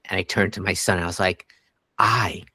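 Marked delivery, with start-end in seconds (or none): 2.0-2.4 breathless fast whisper of the line; a quick awed whisper; hushed whisper. Retold or imitated. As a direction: whisper it like a secret to your kid.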